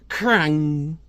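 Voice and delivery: metallic "crang" sound effect; imitated clang. Reader voicing the chain going up, imitated metallic clang. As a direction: make the chain's clank by voice.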